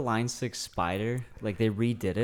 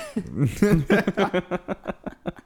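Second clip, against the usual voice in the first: high laugh; 10 semitones higher, 6 dB louder than usual. Real, not acted. Laughs at own pun.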